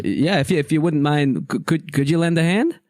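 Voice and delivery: a hint of a hesitant gnome asking a favor. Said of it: "The gnome says".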